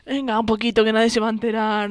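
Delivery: put-on drunk customer. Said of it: "Lo típico de los borrachos".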